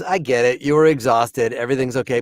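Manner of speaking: reassuring wife. Retold or imitated. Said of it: "my wife goes".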